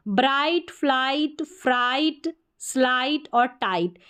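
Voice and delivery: "ब्राइट, फ्लाइट, फ्राइट" with plain "ite" endings, no g sound; silent gh demo. Shown as a demonstration. Teacher reads i-g-h-t words to learners, gh silent as in "ब्राइट". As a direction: read "स्लाइट और टाइट" leaving gh silent. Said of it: "ये silent है, इसका उच्चारण नहीं".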